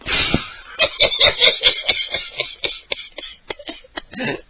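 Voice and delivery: long high breathless giggle; can't stop giggling after the hang-up; high giggling fit. Real, not acted. Caller laughs helplessly after being told to get lost.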